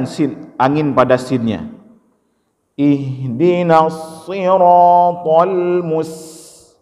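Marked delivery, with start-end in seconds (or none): 2.7-6.7 slow chant that stops after "mus"; cut reading. Shown as a demonstration. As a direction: break "mus" off from the rest. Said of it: "jangan dipotong".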